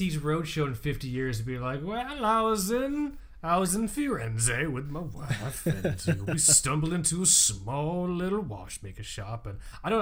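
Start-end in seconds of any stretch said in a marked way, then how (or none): 1.8-9.5 slow, drawn-out mock old-timer telling a tale; lightly put-on storyteller voice, taking his time; a hint of a folksy old man reminiscing; folksy old collector. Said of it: "I have no idea why you have this accent now".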